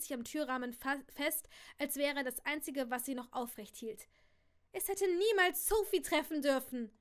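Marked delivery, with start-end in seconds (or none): 4.7-6.9 high, loud anguished lament; distraught. A narrator's reading. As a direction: cry it out in despair. Aunt distraught.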